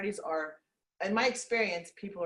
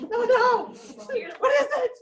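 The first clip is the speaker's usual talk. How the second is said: very high, slow, laughing drawn-out question; mock eager curiosity; 11 dB louder, much slower than usual. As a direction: stretch it out, desperate to know.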